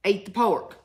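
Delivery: lightly voiced Lord giving orders; voice of God. God repeating the order to eat pork, lightly voiced. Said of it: "You know how God speaks".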